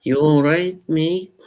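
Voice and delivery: high, cheery Liverpool greeting; a bright Scouse "all right, mate"; Liverpool accent. Pretend. Streamer redoing his Liverpool accent for chat. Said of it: "The Liverpool accent, I did".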